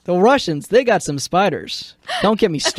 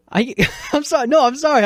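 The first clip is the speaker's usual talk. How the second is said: high-pitched, cracking up; helplessly amused, voice riding up; laughing apology; 8 semitones higher, faster than usual. Real, not acted. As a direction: apologise through real laughter.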